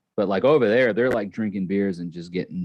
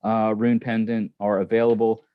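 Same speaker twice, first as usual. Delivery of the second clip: slipping lightly into an Australian accent. Real, not acted. Host reading out pendant details, slight Australian accent. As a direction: talk with a touch of Aussie. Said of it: "talking in an Australian accent".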